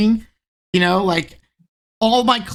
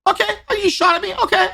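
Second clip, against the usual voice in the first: much higher, fast teasing streamer voice; mock streamer commentary; 13 semitones higher, faster than usual. Imitating a friend's live commentary, much higher and fast. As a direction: rattle it off high and quick like a cocky streamer. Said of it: "You do a lot of those where".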